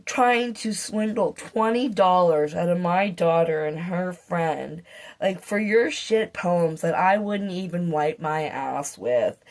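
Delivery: slow, scornful telling-off; a deliberate retold scolding. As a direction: lay into him with slow contempt. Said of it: "said, like".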